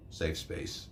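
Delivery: breathy mocking whisper; whispered sneer. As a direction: hiss it out with contempt. Sneered mock buyer quote.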